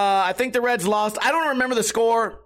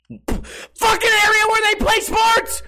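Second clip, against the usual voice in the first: frustrated yell; 12 semitones higher, 4 dB louder, slower than usual. Real, not acted. Host yelling at his mic about arena parts. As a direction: voice jumps up high and loud.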